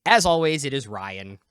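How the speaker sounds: loud, lifted show opener; excited greeting. Real, not acted. Host welcomes everyone to the whiskey review, excited. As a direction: kick off the show with open excitement. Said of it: "hear the excitement in our voice".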